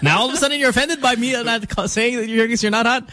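high, fast teasing indignation; mock outrage.

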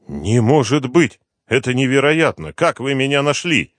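he can't believe he's been found; stunned disbelief. A narrator's reading.

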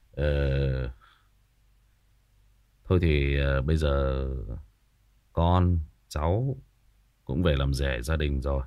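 lightly voiced cold, low formal speech to the in-laws; cold and aloof. Groom coldly addressing the wife's aunt at dinner, low and cool. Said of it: "Anh nói bằng cái giọng quả rất là lạnh lùng".

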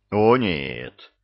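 sudden loud alarm. Acted. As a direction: gasp it out in a fluster. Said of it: "всполошился Илья".

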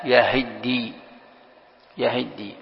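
يهدي as yahaddi, short a after the h; open ha. Shown as a demonstration. Teacher showing the fatha reading, yahaddi for يهدي. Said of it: "وفتح الهاء".

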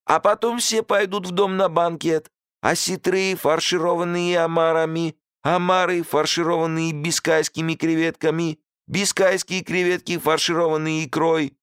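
very high, sing-song menu listing; enticing host. A narrator's reading. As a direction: savour each dish, voice lifted high. Host listing banquet dishes.

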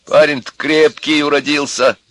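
suffering voice. A narrator's reading. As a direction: say it as if it pains you. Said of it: "сказал отец страдальческим голосом". (страдальческим голосом)

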